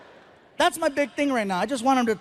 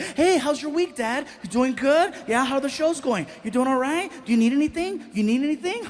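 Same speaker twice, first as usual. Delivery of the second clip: fake-chatty teen; 3 semitones higher than usual. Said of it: "he goes from one-word kid to very".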